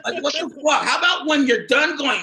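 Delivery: breaking into laughter mid-bit; laughing. Real, not acted. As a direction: crack up while getting the words out. Cracking up at own joke.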